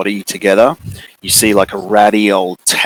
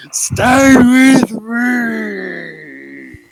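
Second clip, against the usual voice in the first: very high, loud, wailing monster voice; frantic bear begging to be loved; desperate bear; 14 semitones higher, 4 dB louder, much slower than usual. Acted. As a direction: wail it out, stretching the words into a long cry. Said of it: "He's like".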